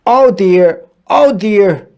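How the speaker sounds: flustered little wail; fretful cry. A narrator's reading. Pig fretting as it jumps into the hippo's arms, worried. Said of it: "cried the pig".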